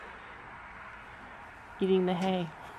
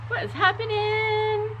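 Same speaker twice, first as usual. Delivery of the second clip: voicing the horse; 12 semitones higher, slower than usual. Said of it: "She's like".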